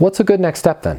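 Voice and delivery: easy, gentle, non-aggressive tone. Showing how to ask for a next step after a no, with calm, nice tonality. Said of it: "See how my tonality was very nice? I'm not being aggressive. I'm not being agitated. I'm calm".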